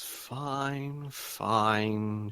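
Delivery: soft, drawn-out grudging assent; understated weary resignation; sighing reluctant agreement. Acted. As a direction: give in with a mild sigh. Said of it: "She sighs and says".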